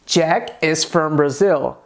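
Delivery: slow "Jack is from Brazil", falling at the end; affirmative statement. Shown as a demonstration. Teacher models the English example, as a slow statement. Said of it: "Em inglês fica assim".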